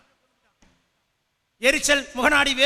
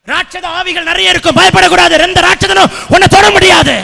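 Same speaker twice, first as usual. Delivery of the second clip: loud, rising preacher's proclamation; forceful preaching; 3 semitones higher, 13 dB louder than usual. Real, not acted. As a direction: build to a ringing shout of assurance.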